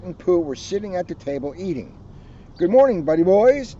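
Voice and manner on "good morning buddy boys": bouncy called greeting; calling out. Acted. Tigger greets his friends at breakfast, calling out. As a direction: call out cheerily to friends. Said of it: "Tigger called".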